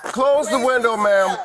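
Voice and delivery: loud, high command; called-out order. Real, not acted. Officer ordering woman to close window, called-out command. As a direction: call it out firmly from a distance.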